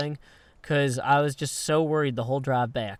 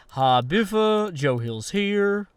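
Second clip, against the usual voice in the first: mock greeting; 4 semitones higher, much slower than usual. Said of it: "I'm like".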